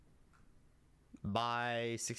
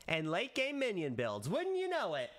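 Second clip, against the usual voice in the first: playful surprise reveal; 7 semitones higher than usual. Shown as a demonstration. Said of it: "I think that was good".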